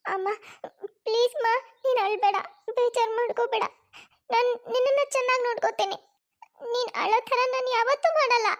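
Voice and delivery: put-on a small boy comforting his crying mother; hint of a child's pleading voice; ten-year-old boy. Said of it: "ಅವಳ ಹತ್ತು ವರ್ಷದ ಮಗ ಅಭಿ ಬರ್ತಾನೆ".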